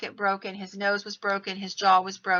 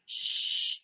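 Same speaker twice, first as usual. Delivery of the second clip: voiceless hush; husband hushing his arguing wife; shushing; 3 dB quieter than usual. Retold or imitated. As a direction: cut her off with a soft shh. Husband hushing wife mid-argument.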